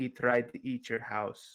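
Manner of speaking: in a whisper. Trying to whisper to the wizard, whispering. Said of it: "try to whisper to the the wizard".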